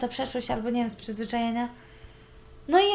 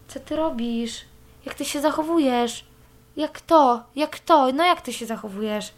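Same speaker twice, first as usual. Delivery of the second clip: imitating his mocking, sarcastic tone; 2 semitones higher, 3 dB louder, slower than usual. Ex taunting her from a car window, mock sarcastic. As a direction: mimic an ex taunting her, needling. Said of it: "takim swoim sarkastycznym głosikiem".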